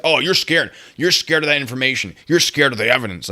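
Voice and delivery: high, loud imitation of a taunt; mock taunting. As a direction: goad them loudly, mimicking the accuser. Mocking retelling of opponent's taunts.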